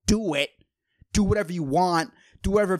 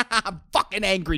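laughing anger; faster than usual. Real, not acted. Laughs at his own anger.

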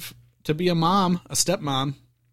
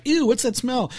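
higher-pitched grossed-out "ew"; mock disgust; 6 semitones higher, 3 dB quieter than usual. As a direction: imitate people recoiling at a smell. Quoting viewers' disgusted reaction.

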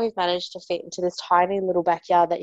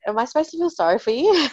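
incredulous retort; 7 semitones higher, faster than usual. Retold or imitated.

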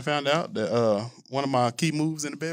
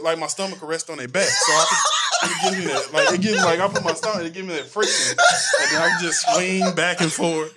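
talking through laughter; half laughing, half talking; 4 semitones higher than usual. Real, not acted. Laughing while describing.

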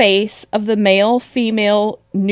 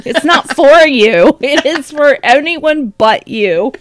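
higher-pitched playful telling-off, laugh breaking in; mock scolding; 5 semitones higher than usual. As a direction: jokingly warn off an unwanted listener. Addresses absent Elon as if listening.

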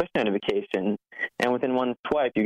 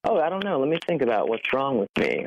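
mock reply; 3 semitones higher than usual. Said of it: "are they supposed to reply with".

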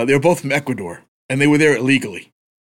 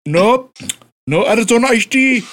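imitating the clerk; 3 semitones higher, slower than usual. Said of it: "And then he goes".

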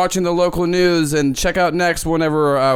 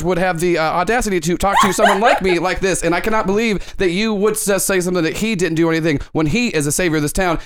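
mildly raised, indignant anchor; Ken De Niro indignant. Acted. Host scolding the Fun Bunch member, mock-indignant anchor. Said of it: "Does your voice always sound like that?".

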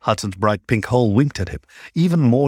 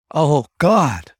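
gasping; 5 semitones higher than usual. Acted. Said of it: "Hudson gasped".

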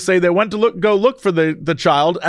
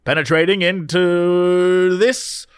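put-on old-timey announcer voice. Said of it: "give me your old-timey announcer voice and read me this article".

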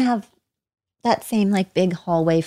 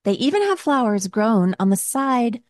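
ad read. Acted. Reads a sponsor ad.

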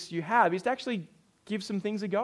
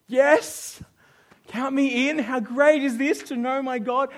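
louder and higher, eager; an eager volunteer signing up, excited; eager yes; 6 semitones higher, 7 dB louder, slower than usual. Acted. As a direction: leap at the invitation. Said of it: "Do you want to be on the team?".

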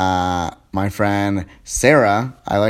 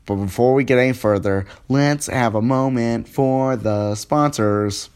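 robot voice. Real, not acted. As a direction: read it like a robot. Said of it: "I'm talking like a robot today".

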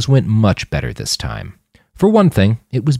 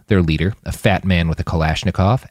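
ordinary delivery, nothing marked

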